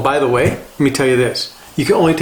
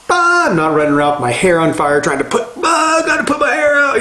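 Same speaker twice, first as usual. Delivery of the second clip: a hammed-up frantic yelp, rising to a shriek much higher; mock panic; 9 semitones higher than usual. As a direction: play a man whose hair is on fire, over the top. Mock panic, hair on fire.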